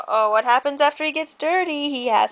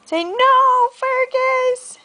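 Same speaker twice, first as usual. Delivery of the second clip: scolding call; 8 semitones higher, 4 dB louder, much slower than usual. Acted. Reading the story's scolding line.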